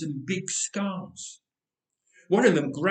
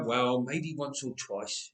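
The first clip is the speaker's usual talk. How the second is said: slow, softer guilty mumble; mumbled; 4 semitones lower, 5 dB quieter, slower than usual. Acted. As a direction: admit it reluctantly, quietly. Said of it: "he mumbled".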